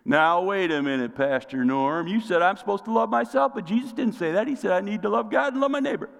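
lightly acted protest, climbing in pitch; objecting churchgoer. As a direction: build a mock objection, rushing at the end. Voices an objecting churchgoer to himself.

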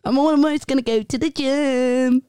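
lightly put-on baby talk; a hint of baby voice. Chatting with partner on a prank call, light baby talk. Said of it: "baby talk trend".

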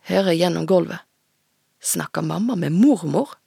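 put-on steady, measured reading of a teen novel; story narration. A narrator's reading. Author reading her own novel aloud to the host. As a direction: read the chapter aloud to the audience.

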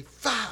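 sudden "fa!" sound effect; quick whooshed burst; imitated burst of light. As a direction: voice a beam of light striking. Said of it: "la luz le llega así".

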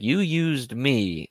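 mock-angry drawn-out accusation; mad. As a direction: stretch it out like a sore accusation. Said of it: "Vince is mad at him".

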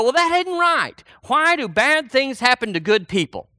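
high-pitched protest of a believer; mock complaint.

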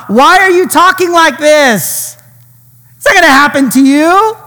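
voicing Peter, pleading against his master's words; alarmed protest. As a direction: plead with him that it can't be true. Peter protests Jesus's death talk.

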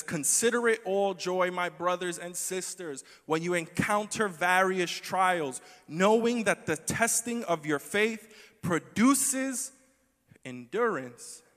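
loud, slow, rising proclamation of the verse; emphatic scripture reading. Acted.

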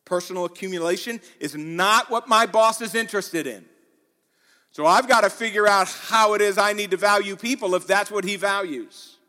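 emphatic pulpit delivery; full-force preaching. Real, not acted. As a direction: preach it loud and high to the whole room.

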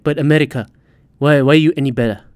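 lightly put-on Saudi accent; mock Saudi accent. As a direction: argue back in a half-hearted Saudi accent. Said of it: "Why am I doing a fucking accent".

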